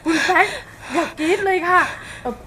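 timid pleading. Acted. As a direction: hush the mistress meekly, afraid to intrude. Maid timidly calms her mistress.

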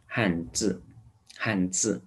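measured repeat, 字 with the tongue kept flat. Shown as a demonstration. Teacher repeating 汉字 for learners, flat-tongue z. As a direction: say the z of 字 without curling the tongue. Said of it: "这个呢就是平舌音".

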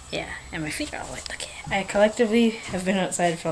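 hushed whisper. Real, not acted. Vlogger whispers to camera late at night.

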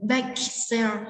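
"bake" stressed, said slowly before "sale"; slow teacher's model, weight on "bake". Shown as a demonstration. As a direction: lean on "bake" in the compound "bake sale". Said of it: "chúng ta sẽ nhấn vào từ bake".

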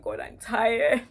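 sobbing, high and loud; crying out to God. Retold or imitated. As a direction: cry it out, voice breaking and rising to a wail. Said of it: "I started to cry".

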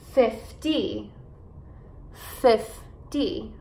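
FIFTY said slowly, FIF stressed; careful model of FIFTY, weight on the start; FIF-ty, first syllable leads in FIFTY. Shown as a demonstration. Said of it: "enfatizar as sílabas no começo".

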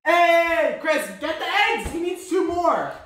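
high, urgent call. Real, not acted. Telling Chris to get the eggs, calling out.

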